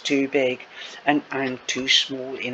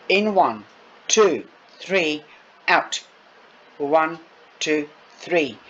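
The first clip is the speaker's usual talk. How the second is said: counting breaths. Acted. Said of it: "I'm going to count your breaths".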